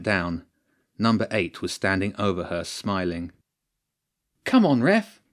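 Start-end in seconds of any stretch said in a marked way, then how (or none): 4.4-5.2 loud, high protest; high, exasperated shout; almost screaming. A narrator's reading. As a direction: yell at the ref, just short of a scream. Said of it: "Nancy almost screamed at this time".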